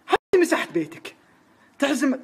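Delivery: wife's sarcasm, high and slow; mock him, slow and shrill-high; سخرية الزوجة. الزوجة تسخر من زوجها. (الزوجة تسخر من زوجها بصوت عالٍ بطيء)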